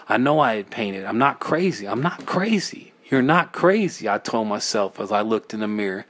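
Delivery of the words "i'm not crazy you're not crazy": higher-pitched, insisting to oneself; anxious self-reassurance. Acted. Narrator trying to convince themselves of sanity, anxious and high.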